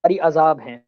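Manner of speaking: words half lost in dropouts; choppy call audio; voice cutting out. Real, not acted. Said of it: "شاید آپ کی آواز کٹ گئی ہے".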